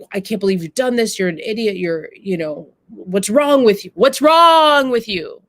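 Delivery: rising exasperation, last words shouted; accusing sister. Retold or imitated. Sister berating her brother over lost money, exasperated. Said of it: "The sister has accused the brother".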